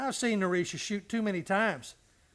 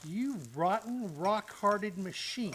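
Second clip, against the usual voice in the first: bitter accusation; slower than usual. Acted. Clancy bitterly accuses Matt.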